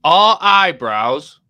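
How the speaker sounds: slow, loud, over-emphatic question; shouting. Real, not acted. Putting a daft question to the lads, shouting. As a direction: boom it out word by word. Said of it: "Why are you shouting?".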